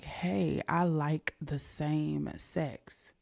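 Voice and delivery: slow breathy whisper of a private realization; whispered thought. Retold or imitated. Teen quietly admitting to himself, hushed whisper. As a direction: whisper it like a secret to yourself. Inner realization, quoted softly.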